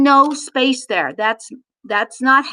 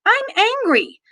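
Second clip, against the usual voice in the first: raised naming; 8 semitones higher than usual. Shown as a demonstration. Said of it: "it's so true".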